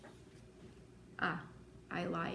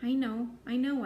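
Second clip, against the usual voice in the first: raised, emphatic comforting; soothing; 4 semitones higher, 5 dB louder than usual. A narrator's reading. Friend comforting a crying girl, soothing. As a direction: comfort with two lifted, louder phrases. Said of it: "soothing her".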